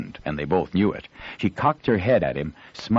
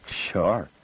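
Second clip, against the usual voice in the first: scornful. Acted. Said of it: "The boy's tone was scornful".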